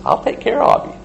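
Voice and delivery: hushed, menacing whisper; whispered threat. Retold or imitated. God's quiet threat.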